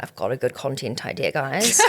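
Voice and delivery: lightly imitated colleague pitching an idea; Vic. Imagining a colleague pitching content, light impression. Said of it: "imagine Vic being like".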